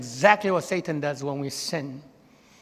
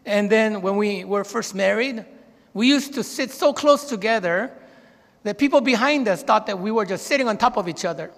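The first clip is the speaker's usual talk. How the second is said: complaining wife; 4 semitones higher, 4 dB louder than usual. Retold or imitated. Wife complaining to driving husband.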